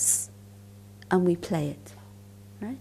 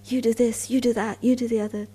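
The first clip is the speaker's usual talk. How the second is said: a retold angry outburst, somewhat raised and higher; mock shout; 5 semitones higher, 4 dB louder than usual. Colleague letting rip at her, retold as a mild mock shout. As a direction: echo his ranting accusations, half-hearted yell. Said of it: "he started shouting at me".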